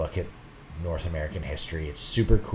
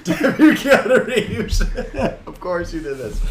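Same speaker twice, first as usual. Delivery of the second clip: mock curse; 13 semitones higher, 8 dB louder than usual. Playful mock curse at Keanu.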